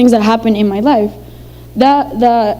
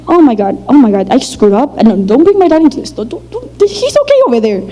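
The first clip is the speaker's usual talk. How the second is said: put-on panicked child. Child panicking after slip-up.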